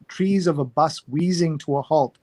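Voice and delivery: steady reading voice for a poem. Acted. Host reading a New York Times poem to listeners, measured poem reading. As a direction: read the poem through evenly, cold. Reads a poem aloud cold.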